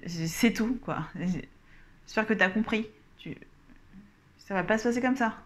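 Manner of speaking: unsure, stammering and halting; hesitant demo. Shown as a demonstration. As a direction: stumble over the words as if not confident. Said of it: "un contre-exemple de ce qu'il ne faut pas faire".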